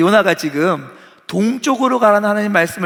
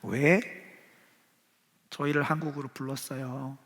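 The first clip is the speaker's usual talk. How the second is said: pouting question; 4 dB quieter than usual. Retold or imitated. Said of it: "입이 이만큼 나와서 질문하고".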